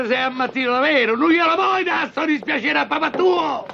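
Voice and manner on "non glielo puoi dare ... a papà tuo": raised, pleading shout at his son; exasperated shout. Acted. Father scolds son refusing trip. (grido esasperato, più alto e forte)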